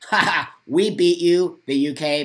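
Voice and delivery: loud taunting laugh; mocking laugh. Real, not acted. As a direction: gloat loudly with a laugh.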